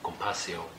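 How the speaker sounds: compaixão said the Portuguese way, kom-pai-SHOWN with a nasal -ão ending. Shown as a demonstration. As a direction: give compaixão its Portuguese sound. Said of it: "In Portuguese you say".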